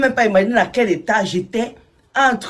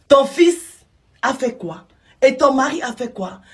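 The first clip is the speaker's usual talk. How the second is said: stunned disbelief; 5 semitones higher than usual. Retold or imitated. Big sister hearing the abuse news, incredulous. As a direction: ask as if you can't believe your ears.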